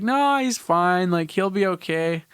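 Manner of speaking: high, slow mock-dad brush-off; dismissive dad. Dad waving off mom's hospital worries, mock-casual. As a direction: play down the injury like an unbothered dad. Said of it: "And my dad's like".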